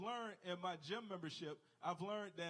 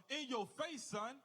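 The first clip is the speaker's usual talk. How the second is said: trash-talk taunt, higher and a bit louder; mock yell; 5 semitones higher, 4 dB louder, slower than usual. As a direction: crow it at the guy you just dunked on. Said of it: "He yells out".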